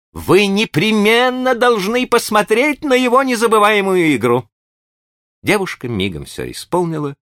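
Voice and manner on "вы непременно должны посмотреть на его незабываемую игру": "игру" with a clear rolled r, high; cheerful high gentleman. A narrator's reading. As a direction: praise him brightly, r said cleanly. Green praises Keister.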